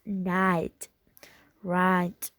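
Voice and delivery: "right" with a British ai glide. Shown as a demonstration. Teacher contrasting accents, British right. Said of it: "in British is".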